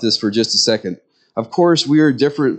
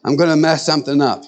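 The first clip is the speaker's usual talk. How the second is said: confused man; 2 semitones higher than usual. Retold or imitated. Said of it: "looking at the knobs going".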